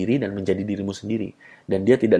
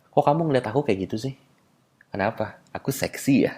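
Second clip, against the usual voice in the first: teasing accusation; 6 dB quieter than usual. Acted. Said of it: "kamu katakan seperti ini".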